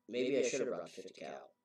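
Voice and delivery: nervous repeat. Retold or imitated. Hunter repeats his joke once he sees the giant tracks, soft and uneasy. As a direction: mutter the same joke again, now uneasy. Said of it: "tree branch snap".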